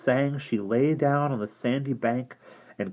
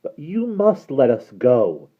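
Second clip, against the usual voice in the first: put-on a lost girl defending herself; young girl pleading; frightened girl voice; 5 dB louder than usual. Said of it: "said Derna".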